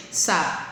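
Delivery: "Sapato" with PA stretched out; intense stressed syllable. Shown as a demonstration. Teacher recalling how the class said it, PA stressed in "Sapato". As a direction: hold the middle syllable PA in "Sapato". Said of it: "Eu falei ela com mais intensidade".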